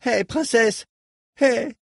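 cri aigu, en se débattant; crié. A narrator's reading. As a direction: hurle en te débattant, la voix tout en haut. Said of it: "en criant". (Reich soulevé par Dors crie de panique)

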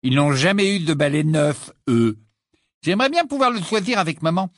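put-on boy cheering up about a new broom, quick; cheerful. A narrator's reading. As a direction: perk up happily. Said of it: "d'un ton plus joyeux".

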